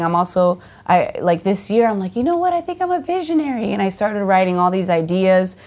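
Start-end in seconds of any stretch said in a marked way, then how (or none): 2.1-3.7 grand self-declaration. Retold or imitated. Self-quote of a sudden realization.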